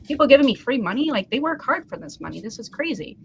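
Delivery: amazed disbelief. Retold or imitated. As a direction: marvel at it as if you can hardly believe it. Acting out amazed thought at tips.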